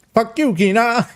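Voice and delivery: high, punchy repeat of the villain's line; quoting the villain. Retold or imitated. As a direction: hit it like the game villain did. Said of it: "I love that one".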